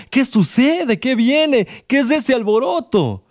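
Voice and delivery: gritando. A narrator's reading. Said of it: "Y Bartimeo gritó".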